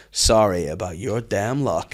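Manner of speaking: drawn-out, mock-sorry send-off; mock condolence. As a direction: stretch out an insincere apology. Mate's deadpan line before a shove.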